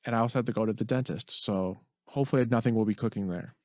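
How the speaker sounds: S's a little off from a missing front tooth. Real, not acted. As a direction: talk with a gap where the front tooth was. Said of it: "my temporary crown on my front tooth fell out".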